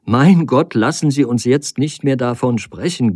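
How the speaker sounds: crying out in despair; cries out. A narrator's reading. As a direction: plead in alarm, pushing him off. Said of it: "rief sie".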